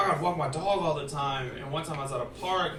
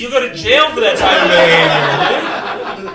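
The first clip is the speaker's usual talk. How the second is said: mock scolding; 6 semitones higher, 11 dB louder than usual. Scolding the friend, loud and laughing.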